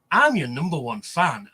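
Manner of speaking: slow, lightly creepy fan voice. Retold or imitated. Random stranger greeting the speaker at the convention, slow and lightly creepy. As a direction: say it slow like an unsettling admirer. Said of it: "really weird smile".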